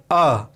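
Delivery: अ sounded short with open breath; vowel demo. Shown as a demonstration. Teacher demonstrating the free vowel अ. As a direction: let the air flow out on अ. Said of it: "अब अ उच्चारण करके देखिए".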